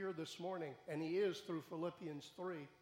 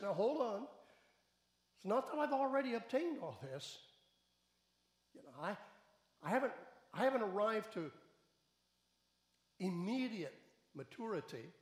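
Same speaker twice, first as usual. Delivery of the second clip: higher, louder urgent protest; earnest Paul; 5 semitones higher, 5 dB louder than usual. Acted. Paul telling the church he hasn't arrived, in a raised urgent voice. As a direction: insist you haven't arrived yet. Preacher voicing Paul's protest.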